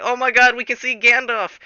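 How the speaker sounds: high, loud fan squeal in words; mock excited. Travellers spot Gandalf in the mines, excited mock squeal. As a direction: gush it like starstruck fans. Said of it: "And they're like".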